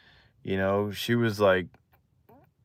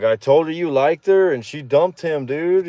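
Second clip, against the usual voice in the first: higher-pitched retold gossip; excited friend; 5 semitones higher, 3 dB louder than usual. Friend telling him she dumped the boyfriend, excited. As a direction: imitate a pal eagerly passing on news. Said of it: "all excited and stuff".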